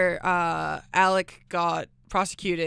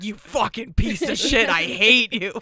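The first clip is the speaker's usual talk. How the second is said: hateful anonymous message; 6 dB louder, slower than usual. Acted. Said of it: "It's just like".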